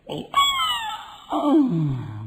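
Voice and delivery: drawn-out mock wail; passengers' scream, acted out; imitated screaming.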